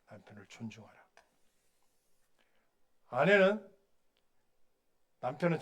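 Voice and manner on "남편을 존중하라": soft echo, stress on 존중하라; quiet repeat. Shown as a demonstration. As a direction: say 존중하라 again almost under the breath.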